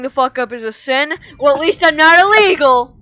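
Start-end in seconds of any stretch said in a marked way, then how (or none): 1.4-3.0 louder, higher retort; indignant comeback. Real, not acted. Snapping back at a friend in a petty argument. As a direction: fire back at him.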